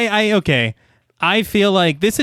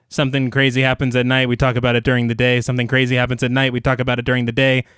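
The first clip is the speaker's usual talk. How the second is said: rote recap; 2 semitones lower, faster than usual. Shown as a demonstration. Podcaster summing up a repetitive movie structure, rote recitation. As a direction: rattle it off like a repeating formula. Recites the film's repeating formula.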